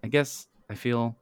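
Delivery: halting, word by word, sinking at the end; defeated. Acted. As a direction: admit it haltingly, as if given up. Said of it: "Janet says defeatedly".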